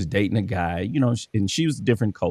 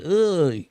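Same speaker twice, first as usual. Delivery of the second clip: mock disgusted ugh; 7 semitones higher than usual. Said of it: "y'all like".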